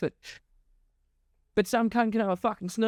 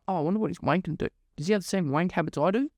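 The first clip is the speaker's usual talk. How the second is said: lower, fast mock musing; mock inner voice; 5 semitones lower, much faster than usual. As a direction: rattle off a viewer's curious thoughts, lower. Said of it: "you can go".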